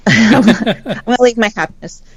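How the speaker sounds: talking through a real laugh. Real, not acted. Amused at holding back about her ex, laughing. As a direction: let the laugh carry the words.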